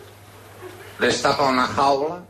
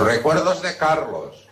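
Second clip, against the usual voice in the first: higher, drawn-out singsong delivery; insistent acted greeting; 5 semitones higher, slower than usual. Friend passing on Carlos's regards, drawn-out insistence. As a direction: stretch it out, rising then falling.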